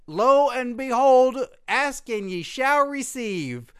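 mock grand. Host announcing the graphics arrived, mock biblical grandeur. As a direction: proclaim it like scripture.

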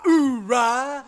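booming Marine grunt, high; loud gung-ho soldier. Retold or imitated. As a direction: shout it like a pumped Marine. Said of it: "Marine chants after a big move".

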